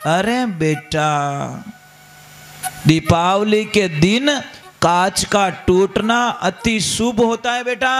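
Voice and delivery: slow, drawn-out motherly consoling; playing a soothing mother; acted reassurance. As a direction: console a child with slow, measured words. Mother consoles her crying daughter.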